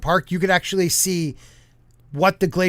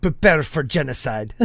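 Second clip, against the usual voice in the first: mock Spanish accent, lower and amused; 4 semitones lower than usual. Co-hosts riffing on a conquistador, laughing Spanish accent. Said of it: "Something, something Spanish accent".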